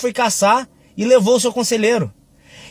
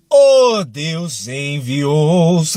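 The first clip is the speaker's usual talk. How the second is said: mock pained cry; 5 semitones lower, much slower than usual. Stubbed toe, holding back curse.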